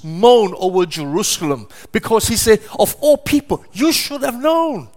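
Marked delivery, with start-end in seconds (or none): 2.8-4.9 mourning lament. Retold or imitated. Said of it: "He cried".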